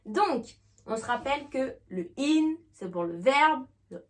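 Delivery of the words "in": a clear short "in"; "in" sound. Shown as a demonstration. Teacher recalling the verb's sound, clear "in". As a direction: isolate the syllable "in". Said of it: "on va faire le son in".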